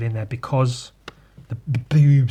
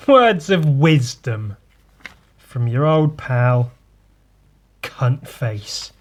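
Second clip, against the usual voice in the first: mock wise sign-off; 6 dB louder, slower than usual.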